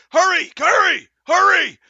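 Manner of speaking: high, loud urgent guard's call; urgent shout. Acted. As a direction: urge them inside at full volume. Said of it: "he waves, he's".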